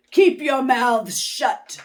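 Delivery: loud stern command; stern order. Acted. Miss Swamp silencing the class, loud and stern. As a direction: order them harshly. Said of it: "said Miss Swamp".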